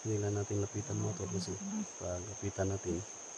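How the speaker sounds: low, quiet delivery.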